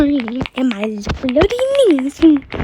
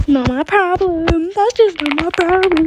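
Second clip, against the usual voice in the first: mock dismissive; 3 semitones higher than usual. Teller retells answering a crying girl, dismissively. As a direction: draw it out like you couldn't care less.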